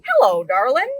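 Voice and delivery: a hint of a fond hello; lightly voiced hello, darling; sweet greeting. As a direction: say it like greeting a dear friend.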